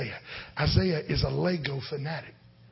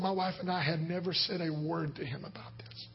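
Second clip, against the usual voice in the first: softer, whispered aside; confiding whisper; 5 dB quieter than usual. Real, not acted. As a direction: lean in and whisper it to the room. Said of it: "Now, you have to understand".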